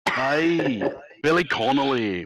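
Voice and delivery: Glaswegian accent with some toughness; Billy Connolly. Shown as a demonstration. Game master demonstrating Glaswegian for the players, tough Glaswegian accent. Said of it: "I can do like the Glaswegian".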